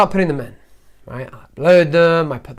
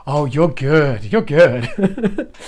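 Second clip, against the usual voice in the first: retold self-reassurance breaking into a laugh; amused self-talk; 2 semitones lower, much slower than usual. Telling viewers about forgetting to hit record, amused self-talk. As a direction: laugh it off lightly at the end.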